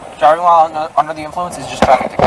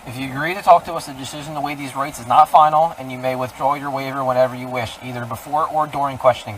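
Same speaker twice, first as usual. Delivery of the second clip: reading Miranda rights; 3 dB quieter than usual. Real, not acted. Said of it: "I'm gonna read you your Miranda rights".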